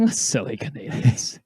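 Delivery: slow, laughing Canadian accent put-on. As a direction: poke fun in a Canadian accent. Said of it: "Your Canadian accent is so bad".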